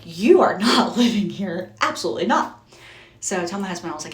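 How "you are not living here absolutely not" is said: firm refusal. Retold or imitated. Mom refusing son's room.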